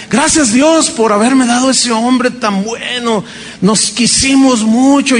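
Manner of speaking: tearful thanks. Retold or imitated. Widow thanking God, retold.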